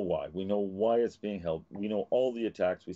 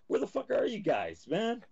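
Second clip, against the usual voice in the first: real angry outburst; 13 semitones higher than usual. Real, not acted. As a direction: shout it at people who won't wake up. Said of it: "I got mad there".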